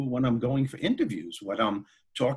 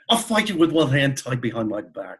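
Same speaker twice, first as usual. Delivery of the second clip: Wizard of Oz lion; 3 semitones higher, 5 dB louder than usual. Retold or imitated. Daring a biker in a bar, hammed-up Oz lion voice. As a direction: puff up like the storybook lion daring a fight. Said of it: "I turned into the lion from The Wizard of Oz".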